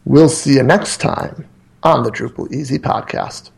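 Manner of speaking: deliberate, careful retake of the outro line. Shown as a demonstration. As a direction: say it again slowly and clearly. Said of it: "Let me try that again, but slower".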